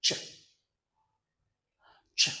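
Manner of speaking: isolated "Ch", repeated with a long gap; "Ch" with no vowel after it; CH sound demo. Shown as a demonstration. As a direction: model the voiceless "Ch" for learners to repeat. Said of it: "Repeat after me".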